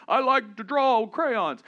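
put-on high, loud and slow, a goofy kid; silly little boy voice. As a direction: play the son as a dreamy goofball. Son voiced in a story.

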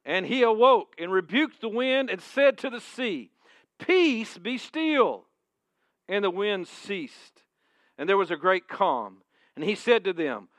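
loud, high preaching read; preached scripture. Acted. Pastor reading Jesus calming the storm, preached loud and high. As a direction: ring out Peace be still.

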